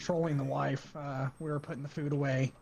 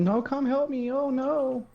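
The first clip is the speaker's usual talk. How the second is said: high, loud teasing cry for help; mock yell for help; 9 semitones higher, 6 dB louder, slower than usual. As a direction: mimic a panicked call for rescue, higher and louder. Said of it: "then why were you yelling".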